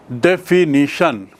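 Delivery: डेफिनिशन slowly in four beats; syllable by syllable. Shown as a demonstration. Teacher recapping examples, डेफिनिशन split syllable by syllable. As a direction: pull डेफिनिशन apart into its syllables. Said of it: "जैसे मैंने बताया".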